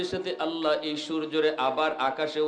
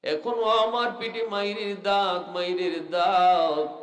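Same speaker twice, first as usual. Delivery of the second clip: higher, sing-song mock wail; acted weeping lament; 4 semitones higher, 3 dB louder than usual. Beaten mother complaining to the Prophet, acted tearful wail. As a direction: draw out the hurt in a chanted lament. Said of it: "মায় কান্দে আর কই".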